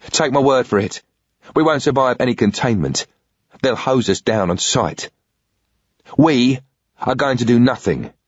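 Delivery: pissed off. Acted. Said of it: "South London gobby twang when pissed off".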